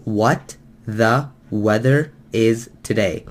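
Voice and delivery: slow, light imitation of a thick Chinese accent, broken sentence "What the weather is today"; imitating Chinese accent. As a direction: mimic the Chinese speaker's slow, careful broken English. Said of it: "on top of his thick accent".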